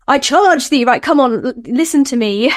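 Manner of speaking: mock-grand invocation voice. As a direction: puff out your chest and project. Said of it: "I'm gonna put on my invocation voice".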